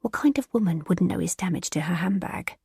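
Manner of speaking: hushed, scornful aside; scathing whisper. Acted. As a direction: pour scorn on the idea. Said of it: "Bridget gives him a scathing look".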